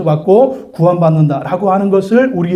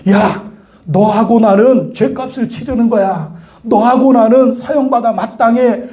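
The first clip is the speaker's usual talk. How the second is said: higher-pitched acted rebuke; scolding; 5 semitones higher than usual. Condemned man rebukes the one insulting Jesus, scolding. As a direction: tell off a fellow convict. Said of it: "막 꾸짖어요".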